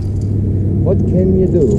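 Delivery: drawn out slowly, rising then falling; slow rhetorical what can you do; slow musing. Real, not acted. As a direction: stretch each word like a shrug. Musing aloud on the water.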